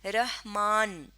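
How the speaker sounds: رحمان slowly, resting on final n; stopping on noon. Shown as a demonstration. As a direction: say رحمان slowly as "rah... maann". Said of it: "نون پہ آ کے ہم ٹھہر رہے". (رحمان آہستہ، نون پر ٹھہر کر)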